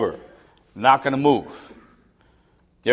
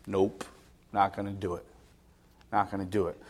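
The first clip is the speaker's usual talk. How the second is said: low, hushed, unbudging no; stubborn refusal; 7 semitones lower, 14 dB quieter, faster than usual. Retold or imitated. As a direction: quietly shrug off the shouted warning. Stubborn person refusing God.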